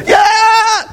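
high yelled yeah; mock scream. Caller yelling at someone off the phone, high and sharp. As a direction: bark it at whoever they're fighting. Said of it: "screaming at somebody".

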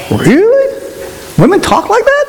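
very high squeaky disbelief; shocked disbelief. Retold or imitated. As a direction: squeal it in mock horror. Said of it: "It was like".

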